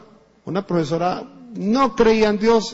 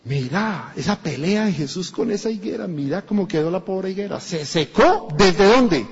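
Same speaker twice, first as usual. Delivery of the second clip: surprised Pedro. Retold or imitated. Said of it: "Pedro estaba como".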